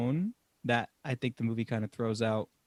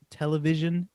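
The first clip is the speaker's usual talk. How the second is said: British accent; 3 semitones higher than usual. Real, not acted. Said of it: "were you throwing a British accent on there".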